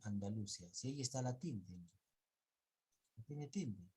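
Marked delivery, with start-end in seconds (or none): 0.0-0.7 "Andalucía" misread as an-da-LU-cia; acento mal puesto. Retold or imitated. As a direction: imitate the stress slipping back to LU in "Andalucía". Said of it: "otra vez regresaste a Andal". («Andalucía» mal leído, con fuerza en LU)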